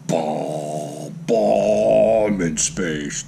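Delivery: low, slow, drawn-out intoning; playful low, portentous drone; mock film dramatics. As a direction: intone it deep and stretched like an epic film moment. Mimics a space film theme.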